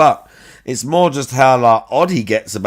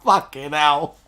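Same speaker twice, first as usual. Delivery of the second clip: laughing hard; 5 semitones higher than usual. Real, not acted. Cracking up at the clip.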